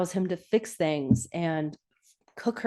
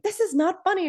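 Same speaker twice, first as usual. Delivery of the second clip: annoyed retort; 13 semitones higher than usual. Retold or imitated. Retelling Emily scolding the pesterer.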